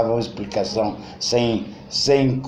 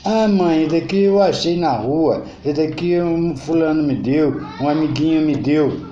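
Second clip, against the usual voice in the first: put-on a kid brushing off his mom; excited child; 4 semitones higher than usual. Child answers mother, excuses. (criança animada, voz um pouco mais aguda e alta)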